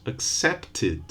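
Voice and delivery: accepted as three syllables, ending tid; accepted with an added vowel before d; extra syllable. Shown as a demonstration. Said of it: "with an extra syllable".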